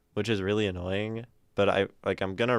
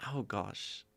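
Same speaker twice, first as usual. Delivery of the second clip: soft, South African-tinged mutter; British attempt turned South African; 8 dB quieter than usual. Shown as a demonstration. Streamer dismayed by own British accent drifting South African. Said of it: "now I sound South African?".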